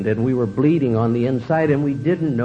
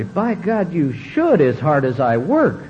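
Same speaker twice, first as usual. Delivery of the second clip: higher, indignant self-pity; self-righteous; 4 semitones higher, slower than usual. Retold or imitated. Husband accepting his wife's apology, smug and indignant. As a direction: play the wronged hard worker. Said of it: "my alcoholic routine".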